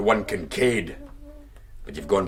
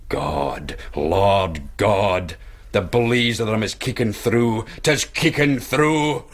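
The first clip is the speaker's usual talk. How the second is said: feigned hellfire vision; slower than usual. Pretend. Stranger faking a vision to frighten the pricker, slow and rising. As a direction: pretend to see hell in his eyes, building up.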